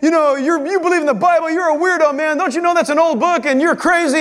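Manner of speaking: lightly voiced scoffing guy; mocking skeptic. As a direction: tease the believer as a weirdo. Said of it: "If somebody comes up and says".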